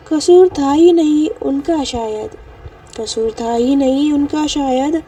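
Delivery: slow, heartfelt poem recital; slow soulful couplet reading; shayari recital. Acted. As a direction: linger on each line like a poet.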